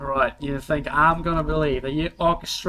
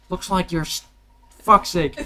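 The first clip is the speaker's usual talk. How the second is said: botched Australian voice; 4 semitones higher, 4 dB louder than usual. Acted. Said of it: "I'm spacing on the voice".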